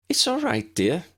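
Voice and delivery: high, gentle reassurance; calm the nervous guest kindly; soothing. A narrator's reading. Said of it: "the shopkeeper soothed".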